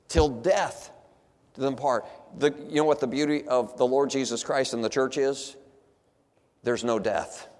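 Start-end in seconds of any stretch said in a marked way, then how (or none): none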